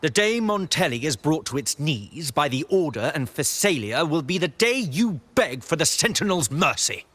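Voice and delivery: grand, menacing proclamation with swooping pitch; ominous warning. Acted. Order zealot threatening the Montelli daughter, ominous proclamation. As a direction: pronounce doom with rising, emphatic swells.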